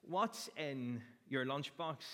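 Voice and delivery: slow, drawn-out question to the church; slow rhetorical question. Shown as a demonstration. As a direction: lean on each word, asked slowly. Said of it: "And it was this".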